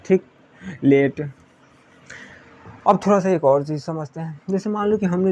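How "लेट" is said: लेट with an "e" as in "let"; E vowel, not EE. Shown as a demonstration. Teacher repeating the word without final E, plain E vowel. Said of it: "ई हटा दूँ तो ये हो जाएगा ए".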